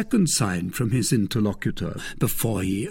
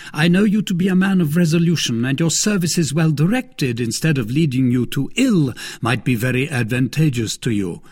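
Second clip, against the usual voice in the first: higher, stately cardinal making his case; a hint of a lofty cardinal rebuking; cardinal, reproving; 5 semitones higher, 4 dB louder than usual. A narrator's reading.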